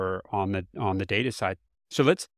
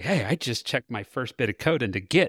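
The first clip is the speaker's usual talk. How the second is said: play-acted, proud, chuffed, pleased-with-himself delivery; 3 semitones higher than usual. Retelling a data consultant's first git check-in: imitating someone proud. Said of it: "all proud".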